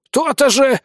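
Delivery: high, satisfied creature retort; snorting snail. A narrator's reading. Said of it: "хмыкнула улитка". (довольная хмыкающая улитка)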